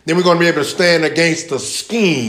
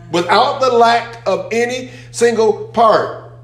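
rising, emphatic preaching at higher pitch; 6 semitones higher than usual. Real, not acted. Preacher driving home a point to the congregation, emphatic. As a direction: drive the key point home, pitch lifted.

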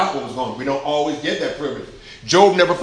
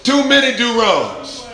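higher, louder, slower; a preacher's loud lament; emphatic; 7 semitones higher, 5 dB louder, slower than usual. Shown as a demonstration. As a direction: lean hard into "Too many do-wrongs". Repeated line, emphatic take.

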